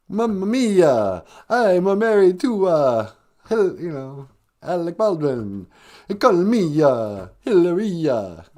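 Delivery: slow, hammed-up fake Spanish accent; mock a phony Spanish accent, drawing it out. Mocking the actor's wife, slow put-on Spanish accent. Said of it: "speak with a fake Spanish accent".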